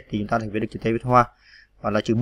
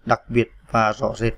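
slow, careful reading of the words; slow dictation; slower than usual. Shown as a demonstration. Teacher dictating the next words slowly. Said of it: "Rồi".

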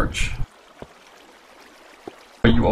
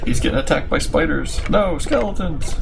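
sports commentary; 3 semitones higher than usual. Pretend. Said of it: "Can you do the commentary in the style of, like, E S P N?".

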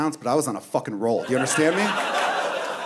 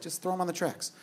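soft inner urging, slightly raised pitch; 3 semitones higher, 9 dB quieter than usual. Acted. Voice in his head tempting him about the man, hushed. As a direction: quietly egg yourself on. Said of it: "a voice in my head".

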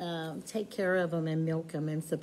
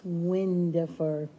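pony's voice; 2 semitones lower, slower than usual. Acted. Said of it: "He says".

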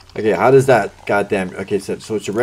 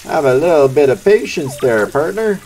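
mock cowboy scold; 4 semitones higher, 4 dB louder than usual. Gamer telling impatient cowboy customers to wait, mock cowboy scold. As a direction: chide them like a cowboy.

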